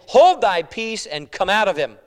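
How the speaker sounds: loud, firm command; stern rebuke. Acted. Preacher reads Jesus rebuking the demon, loud command. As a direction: rebuke it with force on the first words. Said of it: "And Jesus rebuked him".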